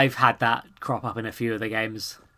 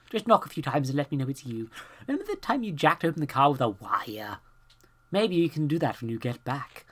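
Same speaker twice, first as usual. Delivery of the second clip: a higher, lightly voiced note writer; reading the note; 4 semitones higher than usual. Player reading a guest's note aloud, apologetic voice.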